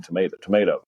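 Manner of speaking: tomato, both times to-MAY-to; American pronunciation. Shown as a demonstration. British expat correcting himself to Americans, tomato with a MAY in the middle. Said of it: "No, no, I mean".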